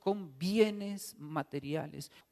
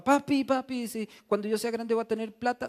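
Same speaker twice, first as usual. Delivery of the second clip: put-on childish squeal; 3 semitones higher, 4 dB louder than usual. Baby crocodile talks to dad.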